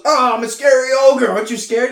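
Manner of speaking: loud, high mock-scary ogre roar. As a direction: play an ogre trying to frighten someone. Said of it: "he goes".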